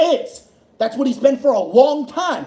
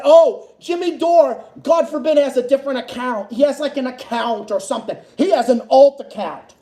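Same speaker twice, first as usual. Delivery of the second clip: mock whining. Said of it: "bitching and moaning that".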